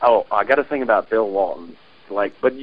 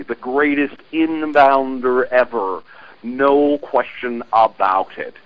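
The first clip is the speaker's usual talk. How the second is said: lightly voiced Bill Walton, slow and drawn out; a gentle take on the broadcaster gushing over a player; hint of Bill Walton praising slowly; Bill Walton impression. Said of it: "I have a Bill Walton imitation myself".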